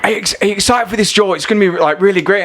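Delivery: high-pitched, eager Scottish producer impression; attempted Scottish accent. Producer hyping Joe for the audition, attempted Scottish accent. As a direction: gush in an amateur Scottish accent. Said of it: "I can't do a Scottish accent".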